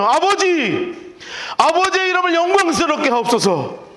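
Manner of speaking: slow, drawn-out prayer to the Father; solemn prayer. Acted. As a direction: pray it slowly and solemnly. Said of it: "그러니 이렇게 기도하죠". (느리고 장엄한 기도)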